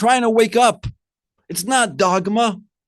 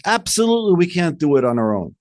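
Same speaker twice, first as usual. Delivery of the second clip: emphatic agreement. Retold or imitated. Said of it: "The answer should have been is".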